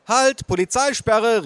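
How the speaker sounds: put-on high, slow kid's command; small boy calling. A narrator's reading. Little boy blocking his uncle, calling out. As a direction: call out like a boy playing police. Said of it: "rief er".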